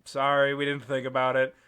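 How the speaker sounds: low, meek apology; mock-sheepish, dropped in pitch. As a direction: imitate scolded kids apologizing. Friends' sheepish apology retold.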